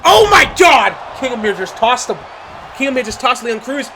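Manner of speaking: high, loud disbelieving yell; excited shout. Real, not acted. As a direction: roar it like the crowd just exploded. Wrestling play-by-play, big spot.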